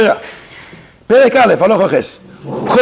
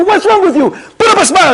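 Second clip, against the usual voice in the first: mock rebuke; 12 semitones higher than usual. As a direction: scold him into smiling. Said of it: "You should rebuke him and say".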